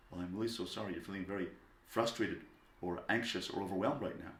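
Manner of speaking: put-on gentle, slightly subdued apology to an upset child; calmly validate the child's feelings; understated, caring parent voice; sympathetic. Parent soothing a child mid-tantrum.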